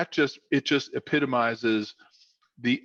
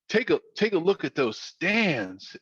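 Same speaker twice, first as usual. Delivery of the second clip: higher, lightly Southern coach voice; attempted Southern accent; 4 semitones higher than usual. Coach pointing players to the stands, lightly imitated Southern accent. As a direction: imitate a North Carolina coach. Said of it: "tried to do my Southern accent".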